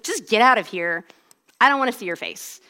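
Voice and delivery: mildly cross, brusque retelling; angry dismissal. Retold or imitated. Coach dismissing a runner who won't go, mildly angry. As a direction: imitate an angry coach, held back in volume. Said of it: "he was really angry at me".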